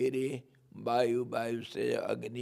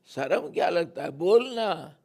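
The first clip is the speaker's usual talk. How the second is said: higher, louder coaxing push; urging mother; 5 semitones higher, 5 dB louder than usual. Acted. Mother urges shy Kanha, louder and higher. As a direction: press the shy child to speak up.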